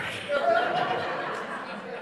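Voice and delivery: breathy chuckle; airy unvoiced laugh; soft laugh. Real, not acted. Laughs at own joke.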